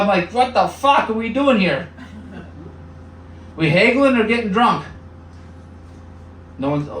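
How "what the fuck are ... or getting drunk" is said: high, incredulous outburst; exasperated. Pretend. Comedian exasperated at friends haggling over a saw. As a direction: throw up your hands in disbelief.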